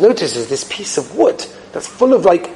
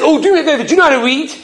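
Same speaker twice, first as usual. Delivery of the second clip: higher-pitched, eager plea to a customer; eager request; 9 semitones higher, faster than usual. Acted. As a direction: ask urgently for a favour. Desperate father asks first customer.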